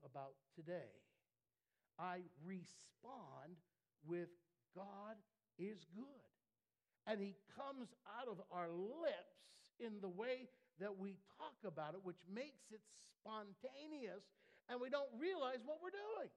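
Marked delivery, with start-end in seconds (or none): 4.7-6.3 slow, gentle, unhurried affirmation; calm slow praise. Acted. Quiet model of praising response. 7.1-16.3 loud, rising sermon push, much higher at the end; preaching at full force. Acted. Preacher rises again.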